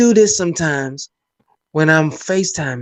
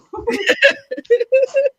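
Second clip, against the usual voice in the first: high-pitched, helpless cackle; laughing; 3 dB louder than usual. Real, not acted. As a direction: crack up in a high squeal of laughter. Cracking up at the exchange.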